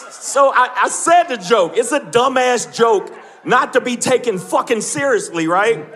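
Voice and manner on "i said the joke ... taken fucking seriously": ordinary talk, nothing marked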